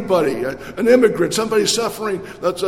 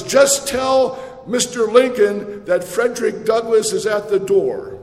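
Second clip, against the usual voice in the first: calling out; 4 semitones higher than usual. Retold or imitated. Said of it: "he called out".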